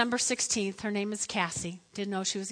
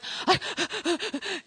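out-of-breath panting; imitated breathless gasps; acted gasping; 6 semitones higher than usual. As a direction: pant as if just up the stairs. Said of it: "She goes".

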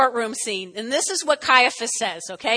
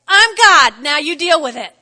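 booming God; 11 dB louder than usual. Pretend. Voicing God showing up.

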